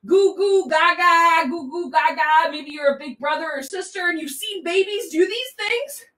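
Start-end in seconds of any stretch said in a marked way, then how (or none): 0.1-2.5 put-on baby babble. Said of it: "They're like".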